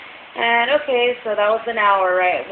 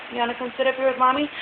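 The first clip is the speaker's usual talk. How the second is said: higher motherly coo, sped up; 4 semitones higher, faster than usual. Real, not acted. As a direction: coax the little one up onto your lap. Mother talking to her toddler.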